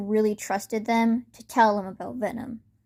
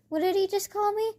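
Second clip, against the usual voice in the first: stunned disbelief; 11 semitones higher than usual. Acted. Bakugo stunned by being called Katsuki.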